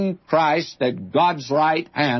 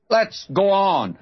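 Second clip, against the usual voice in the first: Let's go on pitched higher, a stirring push; rising exhortation; 6 semitones higher than usual. Real, not acted. Preacher urging his congregation onward, higher rousing call. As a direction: repeat it higher, urging the crowd on.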